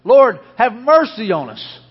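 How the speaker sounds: preacher's imitation of men shouting; retold shouting. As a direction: call out loud as the blind men begging for mercy. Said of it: "they began shouting".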